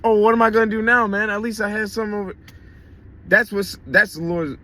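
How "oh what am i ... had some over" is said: mock whining complaint. Preacher mocking a complaining believer, fast whiny gripe. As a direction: mimic a griping believer, rushed and petulant. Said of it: "And you still bitching".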